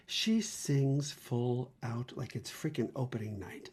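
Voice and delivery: hushed gossip; soft whispered awe. Real, not acted. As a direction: whisper it like a scandal. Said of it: "unvoiced whisper".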